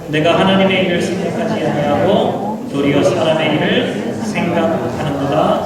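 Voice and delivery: slow, measured Bible reading; scripture reading. Acted. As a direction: read each verse slowly and solemnly. Reads scripture aloud together. (천천히 낭독하는 성경 봉독)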